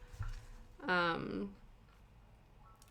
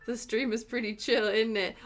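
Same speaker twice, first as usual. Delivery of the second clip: mock British question; 3 semitones higher than usual. Shown as a demonstration. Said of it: "we don't say".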